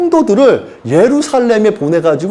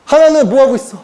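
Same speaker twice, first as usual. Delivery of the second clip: ordinary talk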